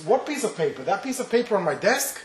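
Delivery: lightly voiced puzzled father. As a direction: ask it like a father not yet grasping. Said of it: "the father comes home and says".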